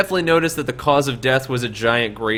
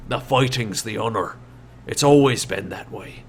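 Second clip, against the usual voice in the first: Shorty's voice; 3 dB louder than usual. Acted. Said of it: "he looks back at you and goes".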